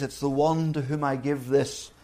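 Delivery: 1 soft voice. Retold or imitated. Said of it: "most likely in a soft voice".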